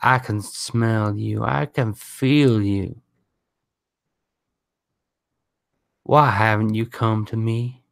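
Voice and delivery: slow, drawn-out haunting call; lightly voiced, unhurried inner voice; voice in the head. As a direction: beckon slowly from inside someone's head. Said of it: "when the voice sings out in your head".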